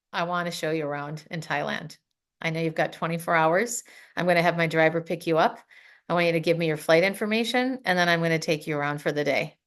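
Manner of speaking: low-voiced imitation of a reserved businessman; reserved man. Reserved man offering the visiting trainer a tour, low-key.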